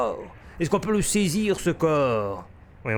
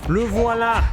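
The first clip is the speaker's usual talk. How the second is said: excited; 6 semitones higher, 5 dB louder, slower than usual. Real, not acted. Repeats the find louder.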